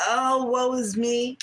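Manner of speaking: slow, drawn-out fake self-pity; mock lament. Tarot reader mocking the haters' self-pity, mock lament. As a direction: ham up a sorry wail, lightly. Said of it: "They crying the blues".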